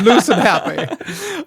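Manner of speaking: slow, breathy-free sultry ad tagline; sultry perfume ad. Pretend. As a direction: drawl the tagline like an advert. Ad tagline retake.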